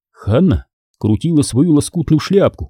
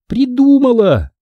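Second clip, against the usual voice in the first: high, drawn-out eureka; sudden exclamation; 11 semitones higher, slower than usual. A narrator's reading. Hanna hitting on a plan, exclaiming to her friend. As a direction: stretch it out in sudden excitement. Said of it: "вдруг воскликнула Ханна".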